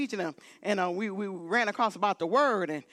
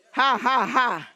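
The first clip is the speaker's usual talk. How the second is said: spoken-out, emphatic ha-has; preacher's prompting laugh; deliberate laughter; 5 dB louder, slower than usual. Shown as a demonstration. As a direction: laugh it out on purpose, beat by beat. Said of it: "Laugh, Monica".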